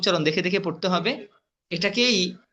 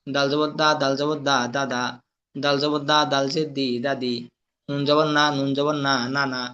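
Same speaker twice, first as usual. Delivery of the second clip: spelling drill recitation; 2 semitones lower than usual. Shown as a demonstration. Teacher drilling Arabic letters with vowel marks, chanted recitation. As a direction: recite it as a steady monotone drill.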